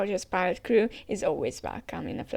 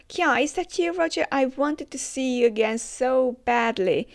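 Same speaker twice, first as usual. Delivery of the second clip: fangirl squeal; 4 semitones higher, 4 dB louder than usual. Acted. Gloriosa fawns over Roger.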